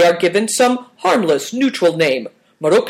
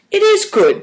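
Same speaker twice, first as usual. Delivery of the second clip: IS pushed much higher and louder; insisting; 4 dB louder than usual. A narrator's reading. Big Tiger defending his plan to Christian, insistent. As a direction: lean hard on IS. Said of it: "Big Tiger insisted".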